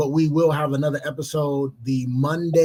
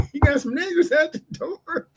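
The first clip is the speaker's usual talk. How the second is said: mocking kid voice; 12 semitones higher than usual. Mocking the kid at every door.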